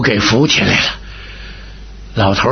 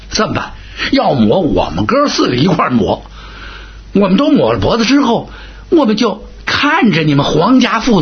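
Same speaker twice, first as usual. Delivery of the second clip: put-on a wronged general complaining to the old marshal; aggrieved, wheedling complaint; lightly voiced sly general playing the victim; Huang Ming pleading; 3 semitones higher than usual.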